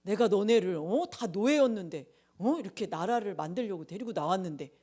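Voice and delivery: mock indignant telling-off; lightly acted grievance, punched at the start; imagined scolding. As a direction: reproach them with a pretend huff. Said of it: "막 그렇게 하셨을까?".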